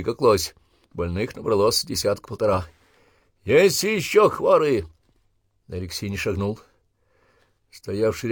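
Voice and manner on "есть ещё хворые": very slow, high loud question; drawn-out shout. Acted. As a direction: stretch the question over the line. Sergeant asks recruits.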